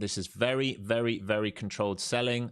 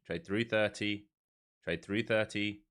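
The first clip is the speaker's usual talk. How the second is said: slower, leaning on thirty; slow, clear repeat. Shown as a demonstration. Streamer repeating his order to the trading tool, slow and deliberate. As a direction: spell it out slowly for the machine.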